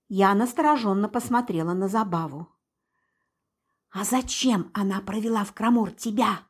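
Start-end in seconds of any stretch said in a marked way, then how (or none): none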